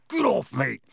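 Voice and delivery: a squeal from a caught creature; squealing gnome. Acted. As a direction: squeak it out as you're swung. Gnome being swung.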